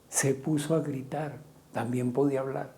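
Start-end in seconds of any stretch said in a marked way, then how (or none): 0.1-1.4 softer, pulled-back repeat; preacher's hushed echo; quiet repeat. Shown as a demonstration. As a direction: drop it down, almost to yourself.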